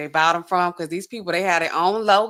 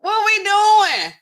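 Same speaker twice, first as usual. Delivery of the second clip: imitating her reaction; 14 semitones higher, 5 dB louder, much slower than usual. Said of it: "I'm gonna say".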